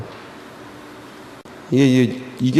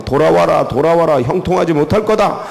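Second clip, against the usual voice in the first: réprimande; 2 semitones higher than usual. Acted. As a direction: call them back with a stern warning. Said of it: "야단치면서".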